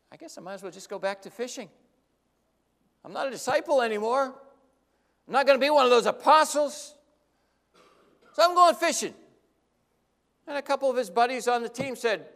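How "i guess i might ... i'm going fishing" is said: building frustration. Acted. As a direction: talk yourself into quitting, louder each line. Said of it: "Peter thought".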